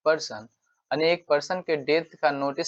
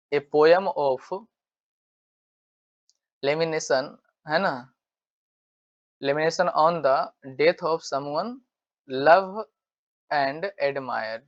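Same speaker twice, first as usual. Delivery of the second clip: slow dictation; much slower than usual. Shown as a demonstration. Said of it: "slow dictation".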